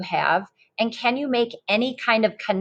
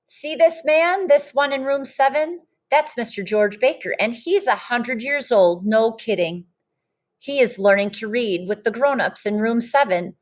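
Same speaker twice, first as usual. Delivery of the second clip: lively storybook read-aloud voice; reading to children. Acted. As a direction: read it like a picture book to a class. Teacher reads picture book aloud.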